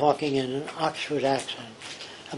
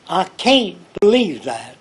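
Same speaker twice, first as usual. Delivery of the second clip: mock disbelief; 3 semitones higher, 6 dB louder, slower than usual. Lou refuses to accept the argument.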